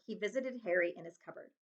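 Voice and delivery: plain reading voice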